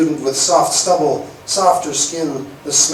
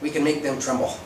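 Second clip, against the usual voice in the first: mock scream; 7 semitones higher, 4 dB louder than usual. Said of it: "stand up and scream through the megaphone".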